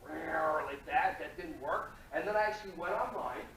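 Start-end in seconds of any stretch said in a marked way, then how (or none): 0.1-0.6 jaguar roar. Retold or imitated. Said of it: "my Jaguar voice was like".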